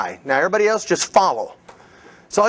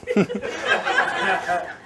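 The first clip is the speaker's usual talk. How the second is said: laugh; 5 dB quieter than usual. Real, not acted. Laughs after the acted pitch.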